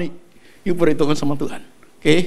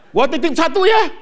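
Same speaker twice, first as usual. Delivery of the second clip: laughing joke; 7 semitones higher than usual. Acted. Joking request, laughing, far timbre.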